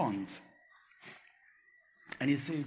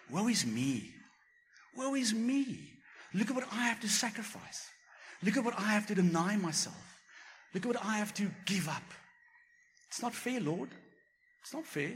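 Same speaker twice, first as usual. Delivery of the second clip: whiny self-pity; 6 semitones higher than usual. Pretend. Mocking a self-pitying prayer.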